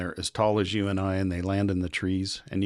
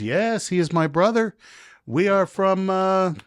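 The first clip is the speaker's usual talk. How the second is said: much higher put-on officer voice; imitating the officer; 11 semitones higher, 5 dB louder than usual. Immigration officer teasing the American traveler, high put-on voice. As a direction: play the passport officer, pitched way up and sly.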